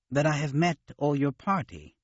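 gently. A narrator's reading. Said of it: "Sav said gently".

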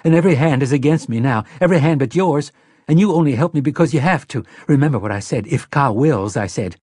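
a frightened mother insisting to Susanna; nervous. Acted. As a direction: rush it out, cornered and scared. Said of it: "Mia said nervously".

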